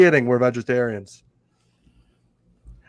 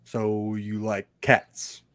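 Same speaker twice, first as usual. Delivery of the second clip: quiet; 3 semitones lower, 7 dB quieter, much slower than usual. Acted. Rereading quote, slow and quiet.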